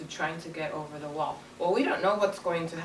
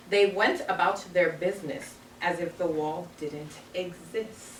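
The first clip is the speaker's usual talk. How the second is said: put-on reading aloud to children. Teacher reading the story to her class, storybook voice.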